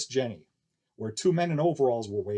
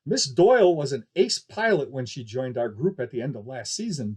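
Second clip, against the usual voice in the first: barker; 4 dB louder than usual. Acted. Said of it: "DeBarker said".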